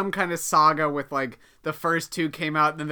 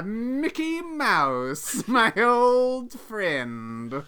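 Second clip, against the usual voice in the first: villain voice; 2 semitones higher, much slower than usual. Pretend. Villain greets Mickey.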